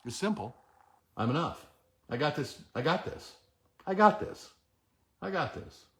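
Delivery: soft, murmured I got this to yourself; quiet self-affirmation. Shown as a demonstration. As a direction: say it under your breath, convincing yourself. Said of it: "You say that".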